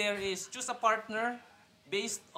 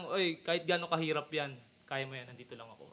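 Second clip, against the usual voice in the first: soft reassuring; 4 semitones lower, 6 dB quieter than usual. Retold or imitated. Girlfriend's encouraging message quoted.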